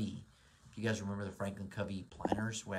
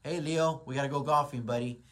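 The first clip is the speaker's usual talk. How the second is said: higher, louder shout to a buddy; cheery call out; 5 semitones higher, 7 dB louder than usual. Pretend. Speaker calls out to his buddy Leo, loud and high. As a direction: hail your pal across the room. Calling a friend to golf.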